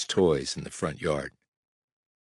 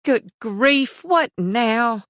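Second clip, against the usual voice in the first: yelling; 3 dB louder, much slower than usual. A narrator's reading.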